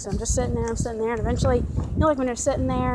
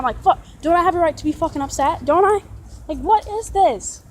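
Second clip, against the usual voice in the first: louder and higher, demanding to be heard; real upset outburst; 4 semitones higher, 4 dB louder than usual. Real, not acted. Ranting to viewers about his bosses, loud indignant outburst. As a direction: let the hurt anger burst out. Venting anger at being fired.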